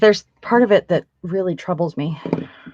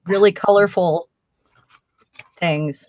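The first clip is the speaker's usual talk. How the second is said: talking around a pin held in the lips; pins in mouth. Real, not acted. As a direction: speak with a pin between your lips. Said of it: "I got a pin in my mouth".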